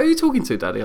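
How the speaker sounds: put-on high little girl's voice; child voice. Dad imitating his three-year-old daughter in a high voice. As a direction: pitch up into a small curious child. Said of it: "she was like".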